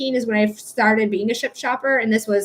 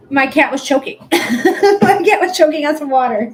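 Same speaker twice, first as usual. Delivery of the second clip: laughing explanation; 2 semitones higher, 7 dB louder than usual. Real, not acted. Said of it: "laughing recount".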